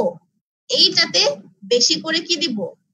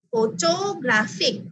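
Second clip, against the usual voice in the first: ফটোগ্রাফিক slow and higher, syllables drawn out, weight on গ্রা; stress on third syllable; 4 semitones higher, much slower than usual. Shown as a demonstration. Teacher shows hand test, stressed গ্রা in slow ফটোগ্রাফিক. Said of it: "third সিলেবলে কি করছি".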